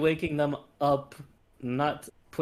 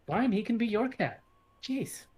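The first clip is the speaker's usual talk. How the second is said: grudging; 10 semitones higher than usual. Acted. Character grumbling concession.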